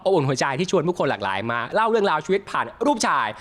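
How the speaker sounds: bright, upbeat host opening; show host intro. Acted. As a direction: welcome the audience like a talk-show host. (เสียงพิธีกรเปิดรายการอย่างสดใส)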